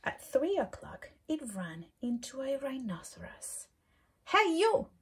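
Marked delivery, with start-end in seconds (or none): 4.3-4.9 high, loud, cheeky challenge; grouchy ladybug voice. Acted. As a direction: pick a fight in a squeaky bug voice. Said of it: "said the grouchy ladybug".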